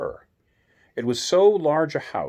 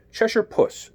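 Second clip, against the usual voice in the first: timid; 11 semitones higher, slower than usual. A narrator's reading. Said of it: "rather timidly".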